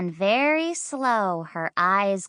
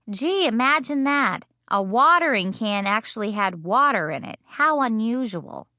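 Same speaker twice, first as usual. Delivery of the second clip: dry mock surprise; sarcastic; 2 semitones higher than usual. Mother teasing the girl about the watering can, sarcastic. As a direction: needle the kid with fake amazement. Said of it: "That is called sarcastic".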